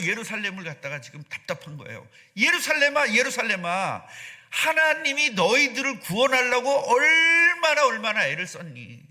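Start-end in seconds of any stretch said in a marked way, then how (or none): 2.4-9.0 higher, louder cry of grief over a city; anguished lament. Acted. Preacher voicing Jesus crying out over Jerusalem. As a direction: call out to Jerusalem with aching longing.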